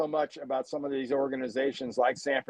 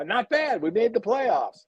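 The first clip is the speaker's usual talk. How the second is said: higher-pitched imitation of contented teams; self-satisfied team quote; 6 semitones higher than usual. Host mimicking teams content with the playoffs, self-satisfied. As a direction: mimic a team pleased enough with its season. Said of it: "a lot of teams go".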